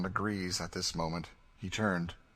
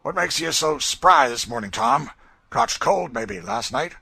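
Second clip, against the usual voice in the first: much higher, loud sneering taunt; cruel mockery; 10 semitones higher, 11 dB louder than usual. A narrator's reading. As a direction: jeer at him in a high mocking voice. Legree sneering at Tom.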